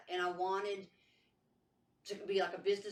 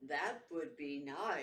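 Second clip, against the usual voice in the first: slow, lower monotone; robot voice; 5 semitones lower, 3 dB quieter, much slower than usual. Pretend. A hint of a robot doll answering her. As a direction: say it like a machine. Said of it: "He stayed a robot voice the whole time".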